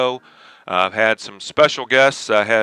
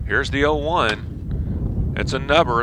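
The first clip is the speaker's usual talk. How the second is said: play-by-play. Acted. Live baseball play-by-play.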